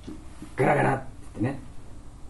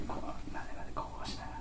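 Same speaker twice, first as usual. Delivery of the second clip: fast whisper; 12 dB quieter, much faster than usual. Real, not acted. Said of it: "ボソボソ".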